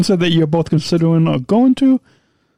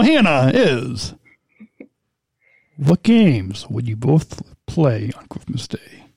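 whisper; 4 semitones lower, much slower than usual. Pretend. Whispered slow question read.

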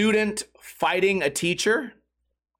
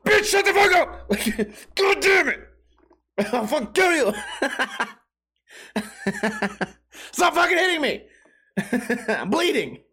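high hammed-up yell broken by laughs; mock furious yell; 7 semitones higher than usual. Fed-up boyfriend finally snaps at drunk girlfriend, hammed-up screaming. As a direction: blow up in mock rage, laughing. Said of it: "eventually you're gonna say".

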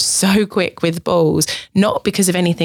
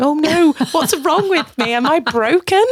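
mock distress; 9 semitones higher than usual. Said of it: "I'm going".

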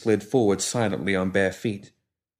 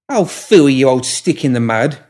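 put-on higher, louder bright young woman; cheerful young woman; 4 semitones higher, 6 dB louder than usual. A narrator's reading. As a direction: voice her brisk and eager. Molly teasing the pram.

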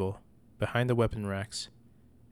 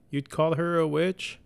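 high, loud, slow screech; 7 semitones higher, 4 dB louder, slower than usual. Acted. Mother screeching at her son as he flees. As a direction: drag out the outraged question. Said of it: "she screeched".

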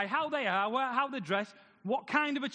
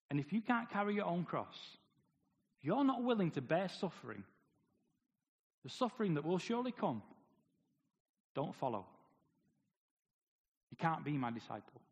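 softer and lower, a grave Jesus warning; solemn quiet warning; 6 semitones lower, 5 dB quieter than usual. Retold or imitated. Jesus warning the crowd of the cost, softly. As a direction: let the warning sink in quietly.

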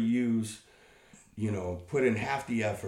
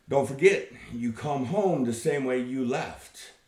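wife yelling; 4 semitones higher, 4 dB louder than usual. Retold or imitated. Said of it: "And the wife yells".

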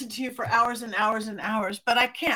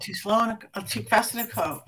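ordinary talk, nothing marked

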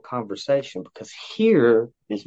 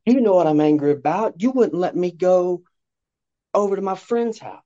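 put-on higher, whiny kid voice; mock child complaint; 7 semitones higher than usual. Child complaining to parent about friend's house, whiny. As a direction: play the sulky kid denied a visit.

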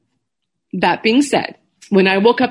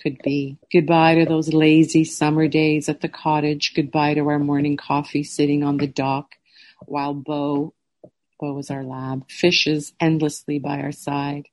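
letter read aloud; 3 semitones lower than usual. Real, not acted. Reads her goodbye letter aloud.

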